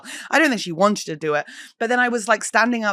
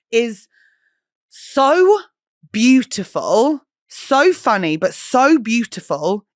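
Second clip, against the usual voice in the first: gushing; 5 semitones higher, 5 dB louder, much slower than usual. Real, not acted. Gushing about a show.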